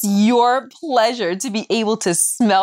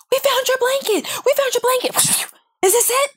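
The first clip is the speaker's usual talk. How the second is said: imitating a thrilled crew lady, much higher; squealing good news; excited high cry. Mom plays the cruise worker returning the blanket, high excitement.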